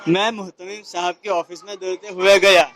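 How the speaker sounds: speaking up loudly. Real, not acted. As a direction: say it out loud for the teacher. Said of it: "اور زور سے بولو".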